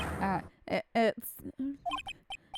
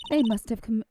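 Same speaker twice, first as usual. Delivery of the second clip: wrong voice; 4 dB louder than usual. Shown as a demonstration. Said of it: "wrong voice".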